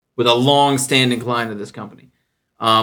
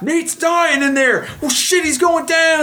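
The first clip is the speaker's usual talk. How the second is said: much higher, gleeful mock panic; gossiping coworkers. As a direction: coworkers sure he's doomed. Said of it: "They're like".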